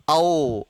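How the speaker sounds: low, open औ; modern pronunciation. Shown as a demonstration. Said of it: "औ का उच्चारण करना है".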